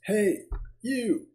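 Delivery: Southern twang, pushed a little high and bright; southern accent. Acted. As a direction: play a brassy Southern reporter. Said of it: "I've heard that southern accent".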